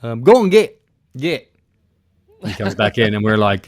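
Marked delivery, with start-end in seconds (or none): 0.0-1.5 higher, breezy and unbothered; mock-casual polar bear alert, pitched up; relaxed friend. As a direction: announce a polar bear as if it's nothing. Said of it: "he's just so relaxed".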